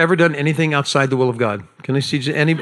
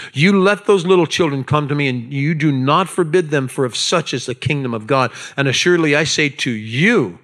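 very angry Jesus. Retold or imitated. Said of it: "here's how I think Jesus said it".

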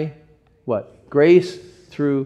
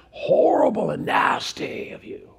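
whisper; 7 semitones higher than usual. Real, not acted. Aside in sermon.

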